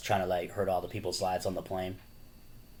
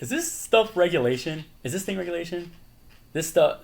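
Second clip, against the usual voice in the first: higher, louder put-on whine; mock complaining voice; 9 semitones higher, 5 dB louder than usual. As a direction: fuss over the ball in a put-on voice. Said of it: "he's like".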